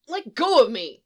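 loud, high angry yell; kid's shriek. Acted. Feral kid to the Jedi holding him, shrieking. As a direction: shriek like a struggling child. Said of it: "the kid shrieks".

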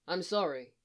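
mildly sad, understanding apology; soft and sad. Acted. Obi-Wan consoles the homeless boy, soft and sad. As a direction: say it with understated sympathy. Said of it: "soft and sad, understanding".

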